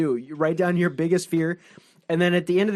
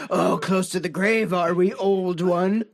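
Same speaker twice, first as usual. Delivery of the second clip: taunting gatekeeper. Retold or imitated. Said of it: "Like, said stuff like that".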